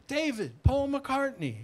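mock singer announcing himself; imitating a famous caller's hello; famous singer's voice. The singer introduces himself on phone.

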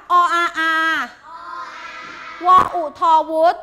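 even, rhythmic letter-sound chant; spelling drill. Shown as a demonstration. Teacher asking pupils to read the word, chanted spelling. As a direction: spell it out for the class to echo. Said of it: "อ่านคำนี้ค่ะ".

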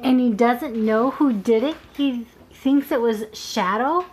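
slow questioning read. Acted. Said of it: "re-read with the lines corrected".

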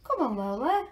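loud, high call across the garden. Real, not acted. Owner calling Lola the pet to come, loud and high. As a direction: call her over from a distance.

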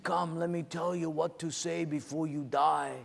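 lightly voiced old sage, measured; a hint of a wise old cellmate. Sage offering last words to condemned men, lightly voiced. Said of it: "there's old Sage in the cell next door".

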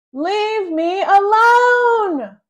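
high, slow furious scream. A narrator's reading. Angry boy screaming at brother in closet. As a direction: scream at him with all you've got. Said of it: "I scream".

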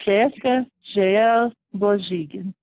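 full name said slowly and carefully. Shown as a demonstration. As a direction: give "Cheska J L Bozigan" unhurriedly, part by part. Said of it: "very slow".

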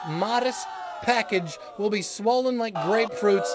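rising into a hammed-up yell; comic panic shout; mock panicked shout. Mock panic rant escalating.

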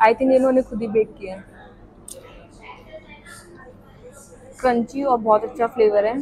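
speaking between bites; chewing while talking. Real, not acted. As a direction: mouth partly full. Seen 1: Just ate a chip; jaw and lips chew while speaking early.

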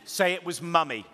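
put-on high, loud, slow cheeky kid voice; laughing child. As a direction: tease dad like a giggling boy. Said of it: "He then laughed and went".

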